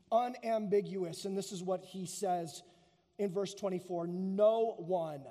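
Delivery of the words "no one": NO ONE said low and firmly, each word weighted; emphatic. Retold or imitated.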